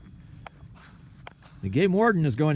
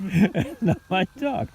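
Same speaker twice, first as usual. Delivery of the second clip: a light put-on French inspector, slow; laughing friend repeats the movie line in mock French; mock French accent; 6 semitones higher than usual. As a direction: echo the Pink Panther line in a hammed-up French accent. Repeating the Pink Panther joke.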